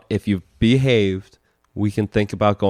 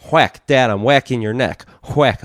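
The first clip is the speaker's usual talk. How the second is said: imitating his son; 4 dB louder than usual. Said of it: "and he'd just go".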